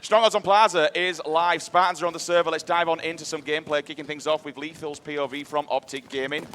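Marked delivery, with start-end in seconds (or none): 0.0-3.0 laughing. Real, not acted. Restarts the intro laughing.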